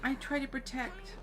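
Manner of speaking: lightly voiced character haltingly telling a painful memory; hesitant young character recounting trauma. Alfie telling of soldiers attacking, lightly voiced halting account.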